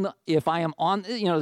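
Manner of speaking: usual speaking voice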